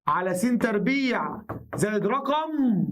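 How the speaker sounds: drawn out slowly, word by word: على س تربيع زائد رقم; slow emphatic dictation. Shown as a demonstration. Teacher dictating the key form slowly to his students. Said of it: "teacher repeats the rule slowly".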